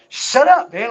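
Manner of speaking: high, loud shut up; shouting back at the voices; mock shout. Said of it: "I was like".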